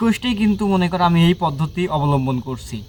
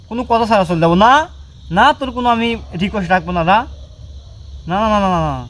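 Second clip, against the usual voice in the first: firm loud refusal; 3 semitones higher, 3 dB louder, faster than usual. Real, not acted. Refusing the spirit's request.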